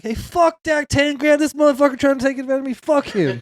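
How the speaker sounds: lightly voiced cussing old man; angry old boy. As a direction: rant it like an irate rancher. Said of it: "this old boy's like".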